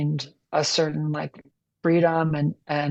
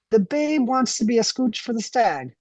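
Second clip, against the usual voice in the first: higher, mocking disbelief; incredulous; 6 semitones higher than usual. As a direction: scoff in disbelief. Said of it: "Brunswick Bob was incredulous".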